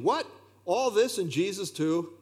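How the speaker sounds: a touch of joyful surprise; the Puritan marvels at his bread and water; delighted exclamation. Retold or imitated. Preacher retells the old Puritan's grateful exclamation. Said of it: "He then exclaimed".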